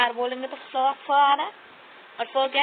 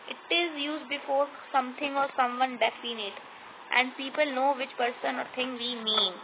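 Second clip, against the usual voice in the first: slow dictation; 3 dB quieter, much slower than usual. Shown as a demonstration. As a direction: read the definition very slowly, word by word. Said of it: "reads rule slowly".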